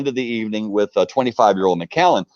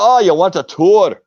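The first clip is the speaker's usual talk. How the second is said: higher, louder put-on voice of the distillery lady; lady at the door; 7 semitones higher, 7 dB louder than usual. Lady at the distillery door offering a tour, higher and louder. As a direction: pitch her up and loud, a sharp question.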